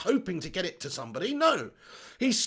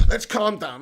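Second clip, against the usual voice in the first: calming self; 4 dB louder than usual. Real, not acted. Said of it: "I'm getting angry".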